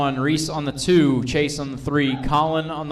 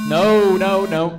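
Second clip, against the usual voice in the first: loud no; 6 semitones higher, 5 dB louder, slower than usual. Real, not acted. False start called off.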